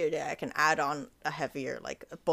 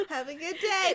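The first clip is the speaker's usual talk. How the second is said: customer service voice; 10 semitones higher, 4 dB louder than usual. Retold or imitated. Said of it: "You see that tone?".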